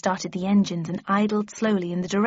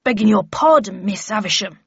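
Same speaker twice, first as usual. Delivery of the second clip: guard's respectful, mild apology; a touch of deference; apologetic; 6 dB louder than usual. Acted. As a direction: beg pardon of a superior, still calling out. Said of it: "replied the guard apologetically".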